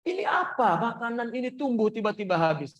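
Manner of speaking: high, slowed, panicked calling out; alarmed plea. Retold or imitated. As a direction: run crying to the Prophet in alarm. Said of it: "dia lari kepada Rasulullah".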